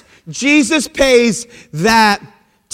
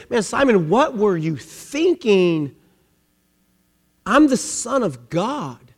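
hushed, measured reproach as Jesus; quiet rebuke; 4 semitones lower, 7 dB quieter than usual. Acted. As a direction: lower the voice and let each word land. Jesus gently rebukes Simon.

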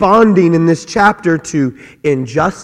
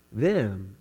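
ordinary talk, nothing marked

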